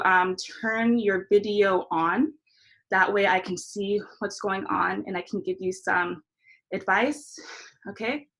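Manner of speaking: winded and puffing between words; out of breath. Real, not acted. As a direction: talk while catching your breath. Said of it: "I'm out of breath".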